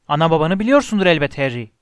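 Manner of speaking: loud, urgent insistence; insistent disbelief. Acted. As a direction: press the point, astonished. Giant astonished at boy's ignorance.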